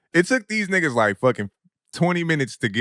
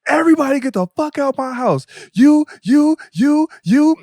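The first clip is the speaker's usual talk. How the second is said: higher, louder mock yell; imitating the mom screaming everyone out; 11 semitones higher, 5 dB louder than usual. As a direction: throw everyone out, pointing. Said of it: "she was like".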